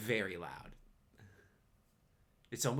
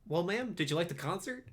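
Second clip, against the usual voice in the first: character voice; 8 semitones higher, 6 dB louder, faster than usual. Acted.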